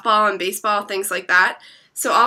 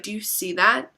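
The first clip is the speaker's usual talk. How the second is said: softer, understated query; hushed retold question; 6 dB quieter than usual. Friend spotting something across the field, hushed. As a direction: ask it quietly, almost in passing. Terrified friend first asks, quietly.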